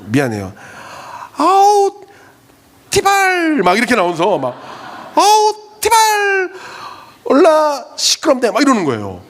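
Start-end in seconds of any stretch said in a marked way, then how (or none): 1.4-3.6 high, loud mock curse of a sulky teenager; annoyed teen swearing. Teen girl swearing, imitated. 5.2-8.5 put-on annoyed teen swearing. Teen girl swearing, imitated.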